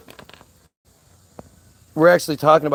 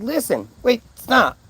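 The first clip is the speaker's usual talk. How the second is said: higher-pitched retold cut-in; exasperated interruption; 7 semitones higher, slower than usual. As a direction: break in to halt her, exasperated. Cutting her off in retold argument.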